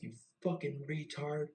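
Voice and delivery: high-pitched imitation of screaming managers; mock chewing-out; screaming berating. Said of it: "they're screaming at the top of their lungs".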